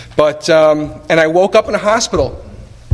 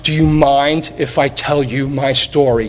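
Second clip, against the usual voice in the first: slow, sincere repeat of the question; slow it down and let it land; moved retelling; 2 semitones lower, slower than usual. Retold or imitated. Speaker moved by the memory of Joe's offer, slow and sincere. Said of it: "I still get goosebumps".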